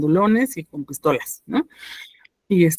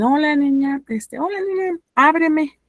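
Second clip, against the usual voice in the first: voz de señor; 9 semitones higher than usual. Retold or imitated. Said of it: "Era un señor".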